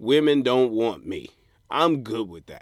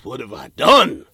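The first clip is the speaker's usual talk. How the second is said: regretful groan; 9 dB louder than usual. Retold or imitated.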